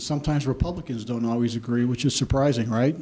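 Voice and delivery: dry, understated sarcasm; sarcastic. Real, not acted. Candidate joking to the audience about his own party, dry sarcasm. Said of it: "That's sarcasm".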